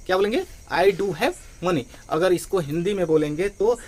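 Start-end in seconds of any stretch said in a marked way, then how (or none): 0.7-1.8 slow, stress on "do" and "have"; emphatic do. Shown as a demonstration. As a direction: say "I do have money" slowly, pressing "do". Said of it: "झटके से तो क्या बोलेंगे". ("do" पर ज़ोर देकर धीरे धीरे)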